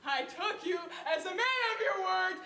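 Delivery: slow, loud tearful accusation; wounded accusation. Acted. Betrayed woman accuses the banker of lying, tearful. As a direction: break on lied to me. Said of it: "You lied to me".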